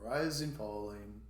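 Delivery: "rising" lifted, "falling" dropped; small up-down demonstration on "rising, falling"; rising-falling intonation. Shown as a demonstration. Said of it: "we're gonna go".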